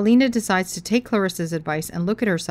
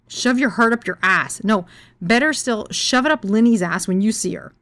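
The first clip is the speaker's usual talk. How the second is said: spiteful fury; 3 semitones higher, 4 dB louder than usual. Retold or imitated. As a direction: throw the insult at him. Insulting boyfriend on Valentine's Day.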